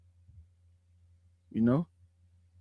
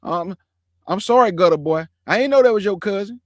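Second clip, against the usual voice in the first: 1 mock scared apology; 4 dB louder than usual. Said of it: "That boy was scared".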